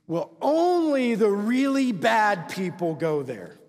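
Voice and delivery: exaggerated, drawn-out reassurance; mock church rationalizing. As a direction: draw out the excuse in imitation. Voices church's rationalizing answer.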